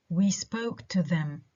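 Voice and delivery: slow example with "to them" unstressed. Shown as a demonstration. Teacher demonstrating an example, "to them" unstressed. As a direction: leave "to them" weak after "spoke". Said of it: "no stress".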